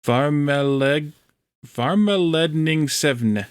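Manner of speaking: slow careful try at "Varmeledning Seven" in Norwegian; Norwegian word attempt. Shown as a demonstration. Practising a Norwegian word for friends in chat, slow and careful. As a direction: sound out "Varmeledning Seven" syllable by syllable. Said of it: "the problem again is, is emphasis".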